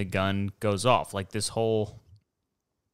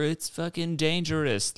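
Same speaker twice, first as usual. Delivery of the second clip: mock alarmed onlooker; 8 semitones higher than usual.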